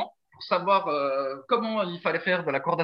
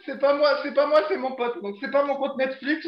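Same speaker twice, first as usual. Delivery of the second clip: higher-pitched teasing excuse; mock denial; 6 semitones higher than usual. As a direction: mimic someone insisting it's not them. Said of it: "celui qui avait des questions, qui disait". (imitation moqueuse, voix plus aiguë)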